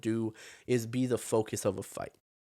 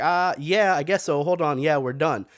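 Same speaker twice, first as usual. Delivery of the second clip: louder, higher, dithering mock ref voice; mock unsure referee; 4 semitones higher, 5 dB louder than usual. Mocking the referee Herb Dean's dithering, louder and higher. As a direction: ham up a ref who can't decide. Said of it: "Herb Dean's like".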